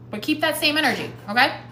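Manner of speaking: chewing while talking. Real, not acted. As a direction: mouth full, mid-chew. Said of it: "I'm chewing".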